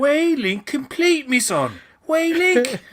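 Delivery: high squeaky cartoon voice; squeaky mock voice.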